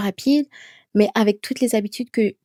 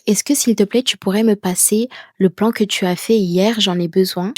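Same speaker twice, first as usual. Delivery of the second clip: louder, begging tone; pleading request; 3 dB louder than usual. Shown as a demonstration. Teacher shows a student begging for the plan, pleading. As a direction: ask as if begging a favour. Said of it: "au lieu de dire".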